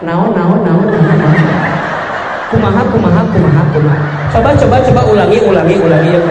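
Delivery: fast, loud panicked questions; wife hearing of the layoff, hammed-up fast panic. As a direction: fire off questions in mock panic. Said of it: "apa kalimat Bunda".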